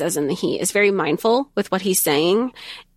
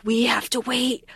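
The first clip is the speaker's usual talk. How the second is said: high, laughing whine of impatience; mock whine; 9 semitones higher than usual. Real, not acted. Fan dreading the wait for book five, laughing whine. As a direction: wail about the long wait with a laugh. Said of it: "but I'm also like".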